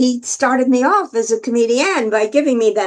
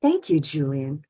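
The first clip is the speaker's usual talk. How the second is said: Bob Newhart; 7 semitones lower, 7 dB quieter than usual. Retold or imitated. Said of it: "So Bob said".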